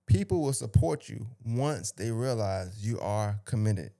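slow, deliberate reading of a post; measured, spaced-out quoting; emphatic read-out. Real, not acted. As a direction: read it slowly so every word lands. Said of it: "I'm gonna read it one more time".

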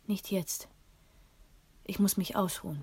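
weak unvoiced whisper. A narrator's reading. Sick father whispers to his children that he must rest. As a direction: barely breathe the words out. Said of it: "flüsterte er".

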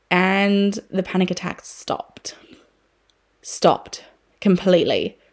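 slow unvoiced whisper; hushed relief. Real, not acted. Telling viewers the attacks finally stopped, in a slow whisper. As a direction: breathe it out slowly in a whisper.

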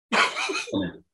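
mock whisper. Mocking coach to his face.

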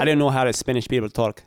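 lightly voiced mock Spanish accent; put-on Spanish accent. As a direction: fumble through a rough Spanish accent. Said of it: "I do this accent for everything".

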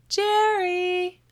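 high loud yell up the stairs; calling kids to dinner. Acted. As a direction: call a kid down from upstairs. Mom calling son to dinner.

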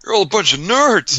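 sneering tough-guy put-down; high, mocking sneer at the kids; Johnny Lawrence impression. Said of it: "he's just like".

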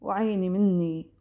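low, measured retelling of a father's counsel; lightly voiced solemn father; father's parting advice. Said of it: "وقتها قالنا".

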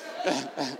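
low chuckle; short, low laugh. Real, not acted. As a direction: chuckle to yourself after the joke. Laughs after joking with Richard.

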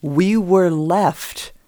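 slow, mocking replay of the odd phrasing; mock quoting. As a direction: read the phrase back slowly, teasing. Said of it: "the construction of how you said that".

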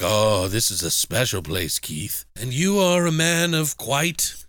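put-on a slick old professor luring a guest in; sly professor voice. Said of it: "he's like".

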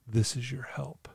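hushed, slow whisper; quiet awed whisper of a friend; 1 solemn whisper. Retold or imitated. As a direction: breathe it softly like a sacred message.

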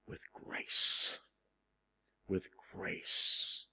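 soft, hushed repeat of the word; gentle. Acted. Preacher lingering on God's grace, soft and hushed. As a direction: breathe it softly, almost whispered. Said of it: "speaks to the woman".

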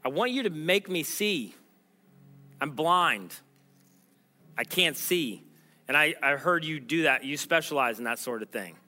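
mock-sarcastic imagined retort. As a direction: play a lightly sarcastic comeback, stating the obvious. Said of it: "if he was sarcastic, he'd be like".

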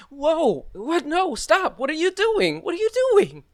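high-pitched imitation of startled onlookers; mock alarm. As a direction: act out alarmed protests, voice jumping up high. Retold crew alarmed at seeing her.

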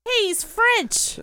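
slow, high, hammed-up French accent; bad French accent. Imitating a film line to a friend, bad French accent. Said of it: "the worst French accent".

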